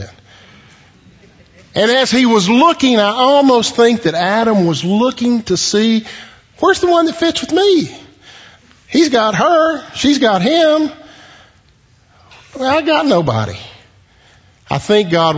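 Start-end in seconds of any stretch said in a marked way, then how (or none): 1.7-13.6 lonely Adam. Acted. Preacher voicing lonely Adam.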